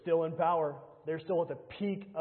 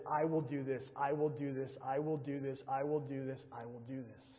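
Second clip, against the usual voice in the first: fading repetition; 3 semitones lower, 6 dB quieter than usual. Acted. Repeating God's promise, dying away.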